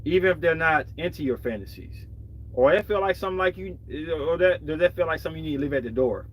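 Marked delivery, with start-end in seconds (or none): 2.5-6.3 slightly slurred, tipsy speech. Real, not acted. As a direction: talk a little tipsy, words slurring together. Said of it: "Sorry, I'm sluttering a little bit, a little bit tipsy".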